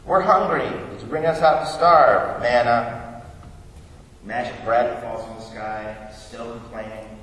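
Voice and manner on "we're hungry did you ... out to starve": lightly imitating hungry grumblers; a touch of whiny protest, slightly raised; mock whining complaint. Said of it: "like a whiny brat".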